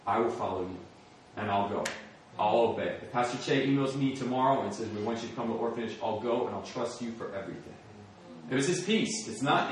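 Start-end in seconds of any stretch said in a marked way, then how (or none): 0.1-7.8 low, soft surrender to God; hushed sincere vow; quiet earnest prayer. Retold or imitated. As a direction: promise it softly from bed.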